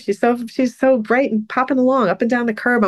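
high, emotional voice; fighting back tears. Real, not acted. Describing the bright young walker to a friend, tearful. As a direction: keep talking high through welling tears. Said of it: "gonna be able to say it without crying".

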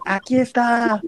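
defiant shout. Retold or imitated. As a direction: shout it back, beating your chest. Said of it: "le empieza a gritar así".

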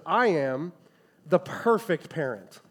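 deadpan sarcastic self-praise; mock-sincere bragging; sarcastic boast. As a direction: boast with a dramatic pause, sarcastically. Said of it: "you heard the sarcasm in my voice".

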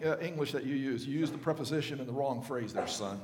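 gently mock a father correcting grammar; pedantic dad correcting a child. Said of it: "hopefully you don't do this".

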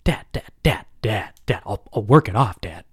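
mock panicked begging, rapid repeats; frantic pleading. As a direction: beg your dad in a mild fake panic. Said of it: "freaking out in the moment".

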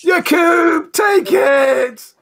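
high, drawn-out battle yell; acted shout. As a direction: call out urgently to a comrade in the fight. Player calls out to Yakub in-game.

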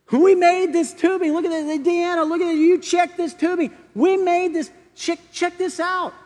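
worker on the plane shouting to his coworkers, proud and excited. Retold or imitated. Worker on the plane calls out to Deanna, high and loud with pride.

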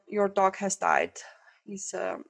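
dropped to a whisper for the bad news; gentle bad news. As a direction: breathe the sad news softly. Vet breaks sad news gently.

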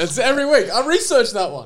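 lightly put-on high Irish lilt; a hint of a stage Irish voice; Irish accent. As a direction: keep the mock Irish going. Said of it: "Was that Irish?".

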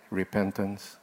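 soft whispered repentance, lingering on "Repentance". Shown as a demonstration. Preacher leading congregation to whisper the word, hushed. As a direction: breathe "Repentance" quietly with the congregation. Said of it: "whisper with me again?".

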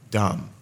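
low, separate "dumb"; emphasized syllable. Shown as a demonstration. Preacher repeats the end of Christendom, emphasized "dumb". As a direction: set "dumb" apart after a pause, dropped low. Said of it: "I emphasize the last syllable".

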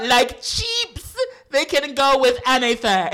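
high put-on British accent with a laugh; hammed-up British accent, laughing through it. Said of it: "Gonna try to be British".

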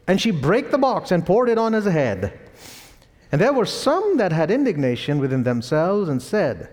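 measured Bible reading with lilting pitch; formal recitation of scripture. Real, not acted. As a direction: read the verse out to a congregation. Reads scripture aloud.

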